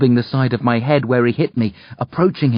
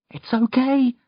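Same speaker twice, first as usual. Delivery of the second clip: reassuring; 13 semitones higher than usual. A narrator's reading. Reassuring uncle after nightmare.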